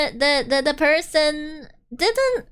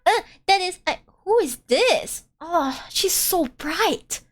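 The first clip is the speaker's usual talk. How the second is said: ordinary delivery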